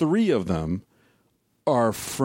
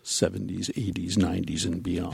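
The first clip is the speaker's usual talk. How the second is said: late night radio dj; 3 semitones lower, 3 dB quieter than usual. Shown as a demonstration. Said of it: "D J voice".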